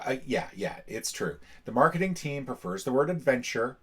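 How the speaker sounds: rally the crew before launch; rousing captain speech. Acted. Captain addressing the mission team, lightly rousing.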